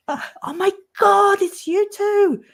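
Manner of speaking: put-on high, excited French accent. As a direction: squeal it like a startled Frenchman. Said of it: "he was saying it in a French, a French accent in English".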